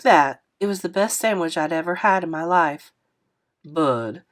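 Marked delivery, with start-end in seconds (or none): 3.6-4.2 put-on a touch lower, friendly older man apologizing; lightly voiced kindly driver, a bit lower. Narrator voices Mister Lewis.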